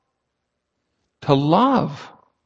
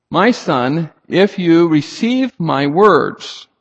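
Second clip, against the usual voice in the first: "words" drawn out and stressed; slow down and lean on "words"; measured reading that lands on "words"; emphasis on WORDS; slower than usual. Shown as a demonstration. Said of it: "notice the emphasis on the words".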